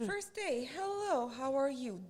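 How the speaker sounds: high sing-song lesson greeting; chirpy teacher. Retold or imitated. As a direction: greet the class brightly, high. Mock teacher greeting class.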